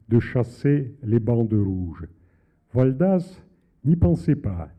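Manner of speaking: measured, deliberate reading of a novel passage; literary reading. Acted. Author reading his novel aloud on air, measured and deliberate. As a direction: read your own prose to the audience, unhurried.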